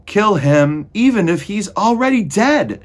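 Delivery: very high, loud shrieked order; furious shout. A narrator's reading. Cook insists Meg kill the mouse, shrieking. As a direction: shriek the command at full volume. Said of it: "shouted Cook".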